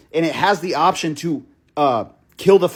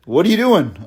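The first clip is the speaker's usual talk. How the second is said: laughing. Retold or imitated. To the date dangling his keys, laughing. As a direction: laugh through a nervous repeat.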